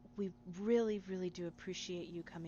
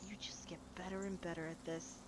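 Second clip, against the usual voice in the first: small mutter; 5 dB quieter than usual. Acted. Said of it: "very small muttering of".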